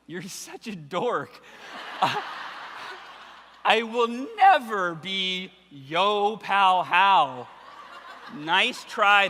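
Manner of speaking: slow, drawn out through real laughter; can barely get the words out for laughing. Real, not acted. Laughing at mom's nickname idea.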